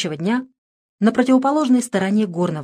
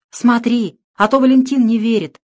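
стон; 4 semitones higher, 6 dB louder than usual. Acted. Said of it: "простонал Василий".

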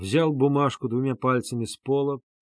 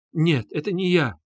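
heartrending cry; 5 semitones higher than usual. Acted. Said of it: "разрывающим сердце воплем".

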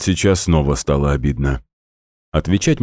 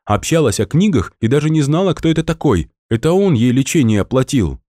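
high, breathless excited chatter; excited shouting; 9 semitones higher than usual. A narrator's reading. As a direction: pour it out in a high excited rush. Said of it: "Наташа от волнения кричала". (взволнованно кричит высоким голосом)

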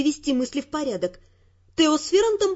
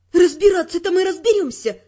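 angry retort; 4 semitones higher, 4 dB louder than usual. Acted. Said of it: "со злостью заверила его я".

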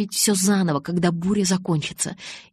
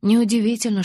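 plain reading voice

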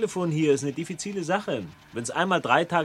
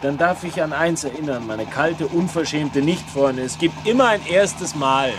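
1 threatening; 4 dB louder than usual. Acted. Threatening to slap rival.

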